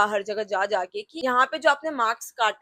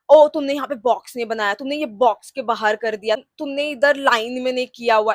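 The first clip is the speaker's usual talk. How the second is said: mocking the teacher; 4 dB louder than usual. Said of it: "He was giving some bullshit reasons".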